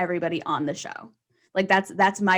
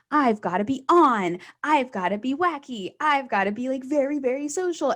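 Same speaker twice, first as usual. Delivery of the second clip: new comic psyching himself up, mock-eager; 5 semitones higher than usual. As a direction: lightly send up a keen newbie comic. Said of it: "The new comics are the ones that think".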